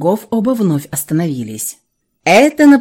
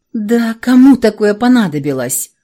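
doubtful; 3 semitones higher, 4 dB louder than usual. Acted. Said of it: "усомнилась Милава".

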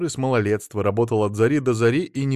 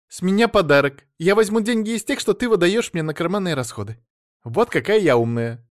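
put-on childlike eagerness; 8 semitones higher, 4 dB louder than usual. A narrator's reading. Elsa boasts childishly.

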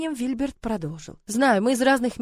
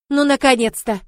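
loud, raised, delighted cry; joyful exclamation; 4 semitones higher, 8 dB louder than usual. Acted. Fairy godmother rejoicing at her godson, joyful exclamation. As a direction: exclaim with happy relief. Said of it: "радостно воскликнула Фелиция".

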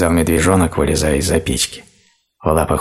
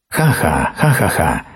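guffaw; slower than usual. A narrator's reading. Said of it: "захохотал Огонь".

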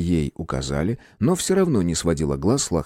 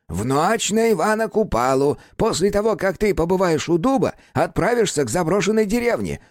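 irritated explaining; 11 semitones higher than usual. A narrator's reading. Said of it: "начал раздражённо пояснять".

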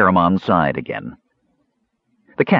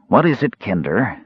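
wary. Acted. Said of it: "the mage asked warily".

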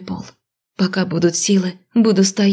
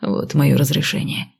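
mocking; 5 semitones lower than usual. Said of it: "хмыкнул он насмешливо".

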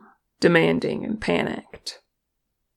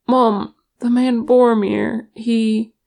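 higher, louder sudden outburst; blurted out; 5 semitones higher, 6 dB louder than usual. A narrator's reading. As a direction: blurt it to your mother, urgent and raised. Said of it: "Frerin blurted".

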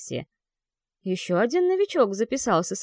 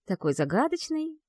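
higher, dreamy drawl; drawn out; 9 semitones higher than usual. Acted. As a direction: stretch it out, swooning. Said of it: "протянула Эрика".

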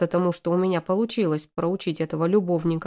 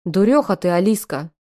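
sighing; 6 dB louder than usual. Acted. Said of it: "тяжело вздохнул Ромка".

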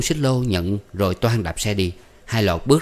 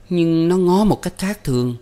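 high-pitched pouting complaint; much higher, petulant woman's voice; sulky girlfriend; 10 semitones higher, 3 dB louder than usual. A narrator's reading. Woman telling on his friend, sulky.

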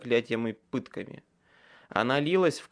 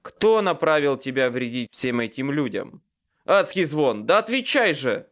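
furious demand; 2 semitones higher, 6 dB louder than usual. A narrator's reading. Wizard demanding answers from a nightmare, furious shout. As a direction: build into a furious yell.

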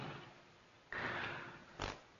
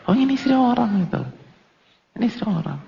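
mock husband aside; 13 semitones higher, 3 dB quieter, faster than usual. Mengejek sikap suami.

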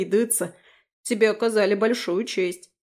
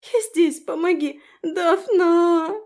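much higher, tearful shout; sobbing cry; 9 semitones higher, 6 dB louder, slower than usual. A narrator's reading. Injured Abi calls to Daphne, sobbing loudly. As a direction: cry out for rescue through tears. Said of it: "громкие всхлипывания".

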